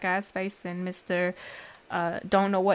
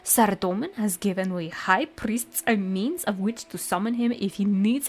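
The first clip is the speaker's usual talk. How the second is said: lightly voiced pompous priest. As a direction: punch the opening, then settle into lightly acted piety. Voices high priest answering.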